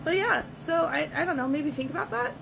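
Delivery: hoarse voice from laryngitis; rough, hoarse sick voice. Real, not acted. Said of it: "I have laryngitis, so my voice is all fucked up".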